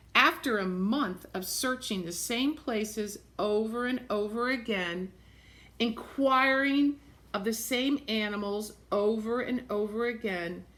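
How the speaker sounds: storybook reading voice; measured read-aloud narration; reading to children. A narrator's reading. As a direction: read the book aloud to the class. Reads picture book aloud.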